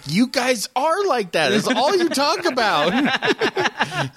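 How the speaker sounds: high, hammed-up heckling voice; drawn-out mock accusation; mocking podcast listeners. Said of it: "they're like".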